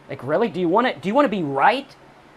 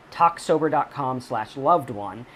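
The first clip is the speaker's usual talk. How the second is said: slowed url read; slower than usual. Shown as a demonstration. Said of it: "What I'm gonna do at talksober dot com".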